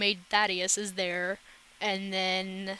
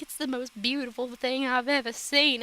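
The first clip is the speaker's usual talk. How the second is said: higher-pitched imitation of gushing over a baby; mock cooing; 4 semitones higher than usual. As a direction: coo it in mock adoration. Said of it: "they're crying and cooing over it".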